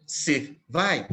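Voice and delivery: "se … vai" in two separate beats; syllable scansion. Shown as a demonstration. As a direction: count "se", then "vai". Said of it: "só tem duas sílabas". ("se vai" dividido em duas sílabas)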